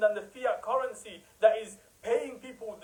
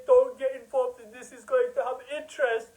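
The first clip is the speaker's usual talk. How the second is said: mock emotional scholar; 3 semitones higher, 4 dB louder than usual. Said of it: "Oh, they cry".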